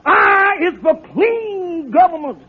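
slow, mock oratorical; soapbox speech. Calhoun reenacting his park speech to Kingfish, mock orator. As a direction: orate like a stump speaker. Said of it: "I stood on that soapbox and I said".

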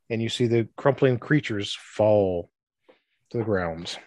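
measured, dramatic scene setting; storyteller with deliberate pauses; game master's narration. A narrator's reading. Game master narrates the turning of undead.

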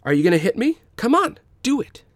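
high, loud goading; bully taunting Tak to hit. A narrator's reading. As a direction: dare them to swing. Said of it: "taunting them".

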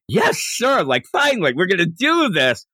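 high-pitched, gung-ho retold reply; eager henchman. Puar answers Yamcha's call to arms, eager and high-pitched. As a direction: imitate a sidekick raring to go. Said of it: "he's all into it".

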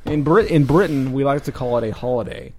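mock British accent, stretched out at the start; put-on British accent. Host claims Britain calls it a holiday, mock British accent. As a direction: attempt a British accent that slides toward Australian. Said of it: "uh, Australian, is it not".

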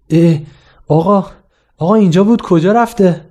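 a caught student pleading in a panic; student flustered, telling the teacher his sheet vanished. Retold or imitated. Caught without his exam sheet.

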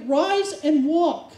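deliberate commanding decree; slow command. Retold or imitated. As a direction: boss the body like a servant. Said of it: "He was bossing them".

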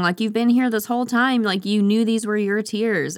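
hammed-up anguished questioning; dramatic reproach. Acting Roxanne's pleading reproach.

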